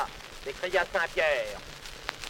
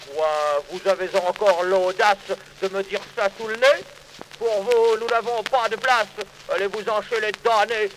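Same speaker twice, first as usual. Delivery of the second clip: indignant Saint Peter. Acted. Saint Peter angrily refuses entry.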